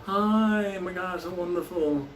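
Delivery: high, drawn-out fake gushing; mock a phony party greeter; full-of-shit gusher. Mocking the party crowd, phony gushing. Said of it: "full of shit people".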